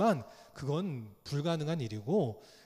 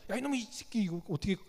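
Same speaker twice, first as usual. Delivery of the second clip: mock scolding; 2 semitones higher, faster than usual. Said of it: "주인이 화가 나가지고 그 강아지를 혼냈다는 거야".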